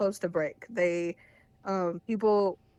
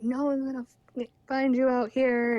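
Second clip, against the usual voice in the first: raised-pitch imitation of his yelled threat; mock screaming; 5 semitones higher, 3 dB louder than usual. Imitating boyfriend threatening her on back roads, mock screaming. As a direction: retell his screaming at half strength, pitched up. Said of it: "he's just screaming at me".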